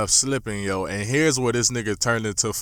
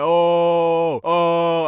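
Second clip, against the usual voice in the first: loud, high hype whoops; higher, louder cheerleader whoops; mock cheering; 6 semitones higher, 6 dB louder than usual. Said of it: "cheering and shit".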